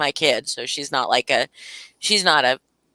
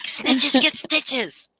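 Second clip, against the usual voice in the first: mock threat; 7 semitones higher, much slower than usual. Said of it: "So terrible".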